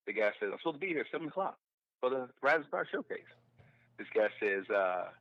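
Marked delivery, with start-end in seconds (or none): 0.5-3.2 higher-pitched, quick explanation; retold plea from a latecomer; protesting latecomer. Latecomer explaining himself to the club manager, mildly protesting.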